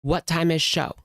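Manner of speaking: lightly mimicked, talking down; a hint of her snooty question; mocking her condescending tone. Mocking the lady's condescending question, lightly voiced. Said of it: "She is so condescending".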